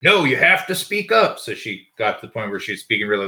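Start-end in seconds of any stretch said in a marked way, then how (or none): 0.0-1.4 high, loud demand, imitating a patient; raised-pitch mock complaint; irritated patient. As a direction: mimic a patient barking at the assistant. Irate patient snapping at assistant.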